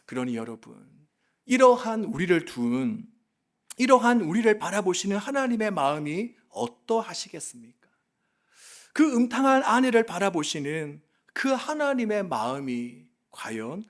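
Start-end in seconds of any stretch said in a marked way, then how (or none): none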